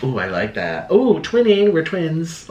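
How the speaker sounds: mock gushing, sarcastic. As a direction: ooh it up with sarcasm. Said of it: "I'm being sarcastic".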